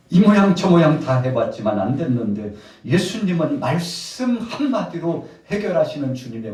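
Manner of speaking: loud, high-pitched sermon delivery; full-force preaching. Real, not acted. Preacher telling of the disciples' efforts, loud and impassioned. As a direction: drive it out to the whole congregation.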